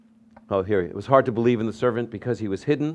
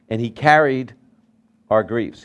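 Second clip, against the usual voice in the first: scripture reading; 5 dB louder than usual. Shown as a demonstration. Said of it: "It says".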